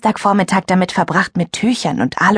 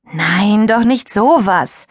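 dismissive; 3 semitones higher, slower than usual. Acted. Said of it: "winkte lässig ab".

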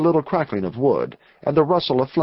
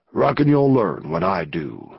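curt gang leader; 5 semitones lower than usual. A narrator's reading. Gang leader answers Jim.

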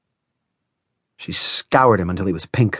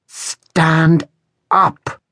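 high, sharp hissed order; Rosa hissing; 8 semitones higher than usual. A narrator's reading. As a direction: hiss the command, pitched high. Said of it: "hissed Rosa".

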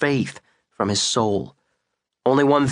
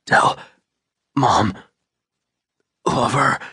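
louder broken gasps between words; gasping; 3 dB louder than usual. Acted. Dying father gasps a last message for his wife. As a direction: force each word out on a gasp. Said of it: "he gasped".

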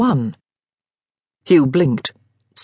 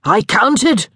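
proud tipsy announcement, pitched higher; triumphant; 6 semitones higher than usual. A narrator's reading. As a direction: say it like a victory. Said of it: "Daniel said triumphantly".

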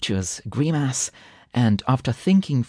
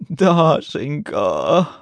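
higher, very drawn-out call; insistent call; 4 semitones higher, 4 dB louder, much slower than usual. A narrator's reading. Husband trying to wake his wife, insistent calling. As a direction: stretch the name out to rouse a sleeper. Calls again after a sigh.

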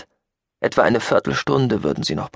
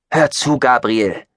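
slow, raised urgent appeal; imploring; 4 semitones higher, 4 dB louder than usual. Acted. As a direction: implore him to listen. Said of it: "beschwor Chayton ihn". (langsam und beschwörend)

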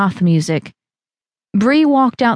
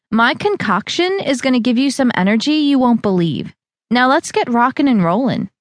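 higher, upbeat trainer; Val's voice; 5 semitones higher than usual. Acted. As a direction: fire her friend up. Val hypes the workout.

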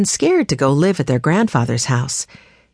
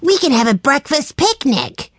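put-on higher, eager little-boy voice; excited; 9 semitones higher than usual. A narrator's reading. Benny proposing a picnic to his siblings, eager and higher. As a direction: bounce with a child's excitement. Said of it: "Jessie smiled at Benny's excitement".

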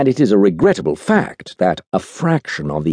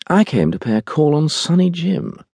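light, higher-pitched calm reply; 9 semitones higher than usual. A narrator's reading. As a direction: answer calmly in a lifted, easy voice. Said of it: "said the saint calmly".

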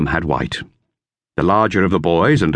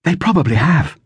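higher, lightly voiced girl; girl's voice, lifted higher; Dorothea; 9 semitones higher than usual. A narrator's reading. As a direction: read it as young Dorothea. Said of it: "said Dorothea".

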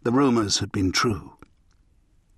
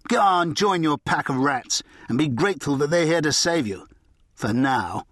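threatening; 2 semitones higher than usual. Acted. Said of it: "His last words were a clear threat".

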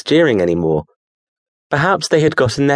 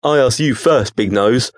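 gruff. Acted. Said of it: "the creature said gruffly".

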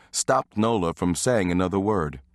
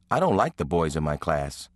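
serious tone; 3 semitones lower than usual. Acted. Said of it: "said in a very serious tone".

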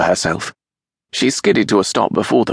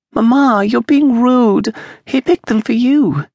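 put-on high, loud, slow child's reproach; a small girl scolding her mamma; scolding little girl; 4 dB louder than usual. A narrator's reading. Child scolds mother for rudeness.

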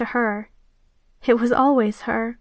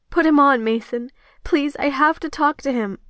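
urgent pleading; 3 semitones higher than usual. Acted. Begging friend to put him on.

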